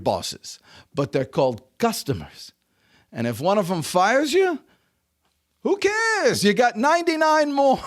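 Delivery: put-on deliberate fatherly lesson in a light French Jewish accent. Father urges son toward sales work, light French Jewish accent. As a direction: pause between points, slight French Jewish accent. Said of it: "in his little French Jewish accent".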